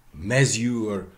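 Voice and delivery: MESURE as "MEZ-yoor", front stressed; first-syllable stress. Shown as a demonstration. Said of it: "first syllable stress".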